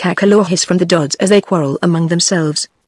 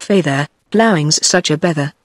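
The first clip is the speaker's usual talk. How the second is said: put-on grumbling, broad country girl; sullen. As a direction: drag out a sulky no.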